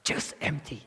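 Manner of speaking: "just empty" singled out with weight on "just"; "just empty" said with emphasis; emphatic stress. Shown as a demonstration. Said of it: "they want to emphasize".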